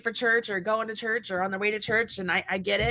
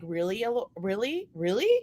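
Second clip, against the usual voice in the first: much softer, muttered disbelief; deadpan quiet disbelief; 4 semitones lower, 7 dB quieter than usual. Retold or imitated. Owner watching her dog choose her husband, quiet disbelief. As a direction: say it low under your breath, unimpressed. Mom hurt that dog picks John.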